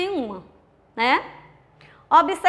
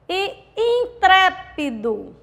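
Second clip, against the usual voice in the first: "intrépido" high and slow, TRÉ stretched; in-TRÉÉÉ-pi-do, leaning on TRÉ; stress on antepenultimate syllable; 4 semitones higher, much slower than usual. Shown as a demonstration. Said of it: "a antepenúltima sílaba".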